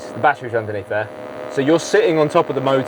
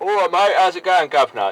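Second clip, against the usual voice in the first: put-on London Cockney accent, pitched higher; 6 semitones higher than usual. Speaker does typical cab driver chat in a Cockney cab-driver accent. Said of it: "[Cockney accent]".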